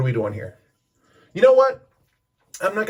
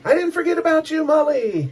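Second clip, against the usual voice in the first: high, louder stage call to the crowd; imitating the singer; 6 dB louder than usual. Frontman calls out to Molly from the stage, high and loud. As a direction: play the frontman shouting a fan's name.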